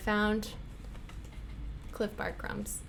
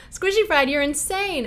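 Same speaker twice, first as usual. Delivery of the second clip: excited shout of the name; 4 semitones higher than usual. Real, not acted. Excited at drawn card.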